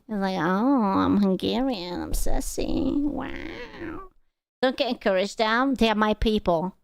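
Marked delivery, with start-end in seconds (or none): 0.4-4.0 mock sassy. Teasing co-host for being sassy, mock sassy imitation. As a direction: mimic someone being sassy, voice rising and thinning. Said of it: "He's being sassy".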